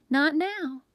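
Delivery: high, loud brush-off; yelled. A narrator's reading. Baker busy chasing a fly, yelling. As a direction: yell it without stopping the chase. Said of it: "she yelled as sweat trickled".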